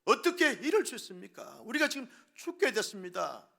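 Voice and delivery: high, loud cry of terrified disciples; panicked shout. A narrator's reading. Terrified disciples shouting at sleeping Jesus, loud and high. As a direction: yell at the sleeping teacher in panic. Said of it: "제자들이 소리를 지릅니다".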